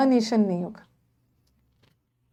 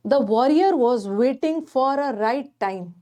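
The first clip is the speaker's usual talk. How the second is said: reads the sentence out slowly, word by word; slow reading aloud; much slower than usual. Shown as a demonstration. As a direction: spell out each word of the option. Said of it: "reading the option aloud". (वाक्य को धीरे-धीरे पढ़कर सुनाना)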